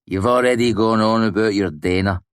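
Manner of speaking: interrupting. A narrator's reading. Will has heard about the girl before, interrupting. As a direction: break in firmly over the speaker. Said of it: "Will interrupted".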